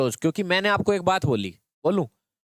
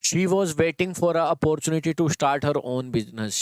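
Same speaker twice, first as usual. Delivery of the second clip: dictating the sentence to the class, word by word; slow dictation reading; much slower than usual. Shown as a demonstration. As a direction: read each word out slowly and clearly. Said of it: "यहाँ से पढ़े".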